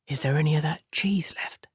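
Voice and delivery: unvoiced hushed whisper. A narrator's reading. Matt hiding in the loft, asking Tom for cheese in a whisper. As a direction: breathe it so the woman below can't hear. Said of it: "Matt whispered".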